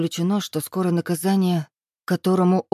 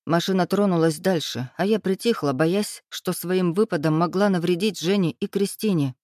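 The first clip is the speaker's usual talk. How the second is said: ordinary delivery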